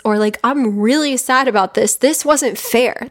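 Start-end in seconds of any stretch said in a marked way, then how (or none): 0.4-1.9 put-on a touch of a sad little kid; higher, let the child's hurt show; lightly voiced sad child; sad inner child. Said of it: "that little kid you that's just like". 1.9-3.1 put-on slow, higher, complaining like a child; first take, held back; hurt child protest. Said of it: "that little kid you that's just like".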